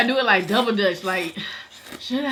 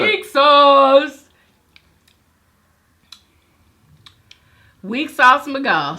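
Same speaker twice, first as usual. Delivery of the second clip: teasing; 3 semitones higher, 8 dB louder, much slower than usual. Real, not acted. Teasing him for tapping out.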